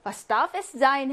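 ordinary talk, nothing marked

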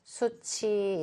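수치 with the ch carried over, su-chi; demonstrated linking pronunciation. Shown as a demonstration. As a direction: model reading of 수치 in two linked syllables. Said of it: "이렇게 읽으셔야 돼요".

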